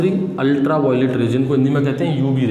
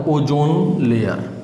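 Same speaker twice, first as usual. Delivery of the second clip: drawn out, word by word; slow key-term emphasis; 3 semitones lower, much slower than usual. Shown as a demonstration. Teacher revealing the most important topic, slow and deliberate. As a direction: stretch the term out slowly for learners.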